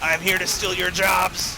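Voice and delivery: slow robot voice; deadpan robot threat. Pretend. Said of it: "Duder is to a robot again".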